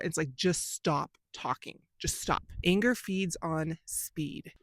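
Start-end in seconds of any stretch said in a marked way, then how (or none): 0.3-2.4 self-restraint. Retold or imitated. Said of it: "I'll feel myself start".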